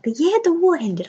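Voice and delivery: put-on high-pitched, baffled child repeating it; retold kid's bewilderment, WAR lifted high; puzzled echo. Child puzzled by dad's answer.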